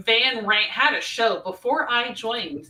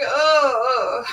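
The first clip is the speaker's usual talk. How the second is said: drawn-out pretend groan; mock inward groan; 3 semitones higher, 3 dB louder than usual. Host voices co-host's hidden reaction, mock groan. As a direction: groan as if secretly dismayed. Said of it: "but really inside, you're like".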